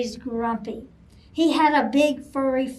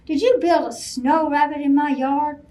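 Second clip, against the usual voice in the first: growling; 2 semitones higher, 5 dB louder than usual. Acted. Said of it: "Bear growled".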